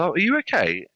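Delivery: high-pitched imitation of a concerned host; solicitous concern. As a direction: gently fuss over an upset guest, pitched high. Host checks on unhappy client.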